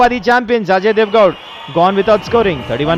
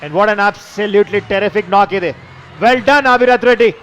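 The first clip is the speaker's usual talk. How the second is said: slow emphatic praise; much slower than usual. Real, not acted. Praising the century.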